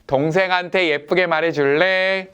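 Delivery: gentle request stressing "동생한테"; kindly asking. Retold or imitated. Father gently asks the older son to speak nicely. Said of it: "일 번".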